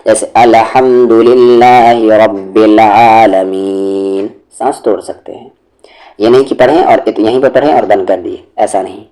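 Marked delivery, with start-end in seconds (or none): 0.3-4.3 very slow, drawn-out chant; Quran recitation. Shown as a demonstration. Teacher showing where to take a breath, slow Quran recitation. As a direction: stretch the long vowels in measured recitation.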